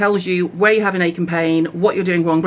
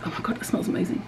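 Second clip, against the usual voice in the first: real whispered aside; hushed, awed whisper; 11 dB quieter, faster than usual. Real, not acted. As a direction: breathe it to yourself, delighted. Smelling the serum, aside.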